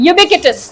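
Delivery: Ubiquitous as yoo-BIK-wi-tus; teacher modelling Ubiquitous as yoo-BIK-wi-tus; ubiquitous said right. Shown as a demonstration. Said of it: "कैसे बोलोगे इसे?".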